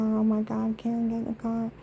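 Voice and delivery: mock a panicky man hurrying her; frantic husband. Mimicking her husband urging her into the car, panicky.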